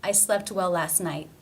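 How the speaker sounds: NIGHT cut off on an unreleased T; stop T. Shown as a demonstration. Teacher modelling the whole sentence, stop T in NIGHT. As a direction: end NIGHT with the breath stopped, no T puff. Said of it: "It is a stop".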